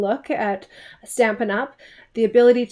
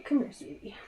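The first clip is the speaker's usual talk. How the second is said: much softer, gentle beckoning; 3 semitones higher, 10 dB quieter than usual. Real, not acted. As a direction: quietly call her over. Calls daughter over softly.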